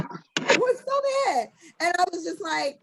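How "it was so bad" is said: high, slow laughing; laughing at the memory. Real, not acted. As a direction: squeeze it out through laughter. Laughing after the fight story.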